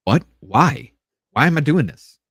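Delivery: incredulous. Retold or imitated. Retelling own disbelief at equal pay.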